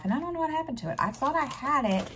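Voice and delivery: exasperated, voice climbing high; frustrated disbelief. Real, not acted. Telling viewers her grocery list vanished, high exasperated disbelief.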